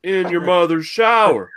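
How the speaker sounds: hammed-up stern host; mock talk-show interrogation. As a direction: grill the kid on live TV. Acting Dr Phil scolding.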